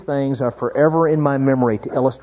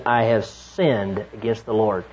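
solemn quiet confession; 6 semitones lower, 6 dB quieter than usual. Retold or imitated. David's confession voiced.

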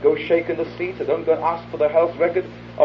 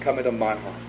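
lower, softer plea; hushed prayer; 4 semitones lower, 6 dB quieter than usual. Shown as a demonstration. Preacher models the sinner's prayer, hushed. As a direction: pray it quietly. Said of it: "Christ and say".

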